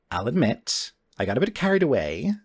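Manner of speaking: a touch of embarrassment, quick; sheepish admission, rushed. Acted. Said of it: "gets a little sheepish".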